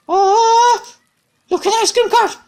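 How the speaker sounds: loud, delighted call; loud, thrilled exclamation; excited exclamation. Acted. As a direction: shout it out with sudden joy. Spots the ice cream cart.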